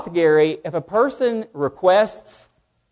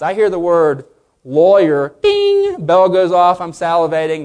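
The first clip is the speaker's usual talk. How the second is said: mock excited; 5 dB louder than usual. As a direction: play the eager dog. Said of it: "Pavlov's dog response".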